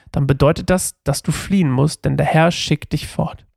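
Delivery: measured scripture narration; Bible reading aloud. A narrator's reading. Reader tells listeners of David meeting Jonathan, measured Bible narration. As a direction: read the passage out as storytelling.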